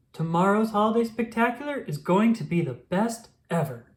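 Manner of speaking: lightly excited pup; a touch of excitement; cheerful. Acted. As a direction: bubble over with cheer. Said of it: "said Rubble".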